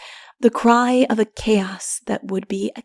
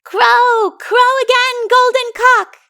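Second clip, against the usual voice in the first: put-on much higher, loud little children calling; excited children's chorus; children calling aloud; 14 semitones higher, 8 dB louder than usual. A narrator's reading. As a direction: shout up like eager kids. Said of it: "calling aloud".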